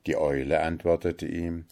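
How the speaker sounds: ordinary delivery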